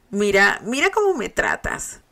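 mock-hurt outburst after a playful punch; playful protest. A narrator's reading. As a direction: protest as if mistreated. Mock complaint after being hit.

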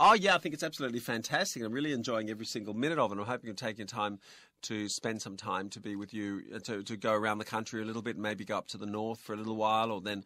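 rapid, nonstop native-speaker English; talking too fast. Acted. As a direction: rattle it off as a foreigner who never pauses. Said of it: "ฝรั่งคนนั้นเขาพูดเร็วเกินไป". (ฝรั่งพูดเร็วรัวจนฟังไม่ทัน)

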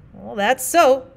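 a hint of a slow, loud old miner; lightly voiced plain-spoken miner, apologetic; rough miner partner. Partner continues.

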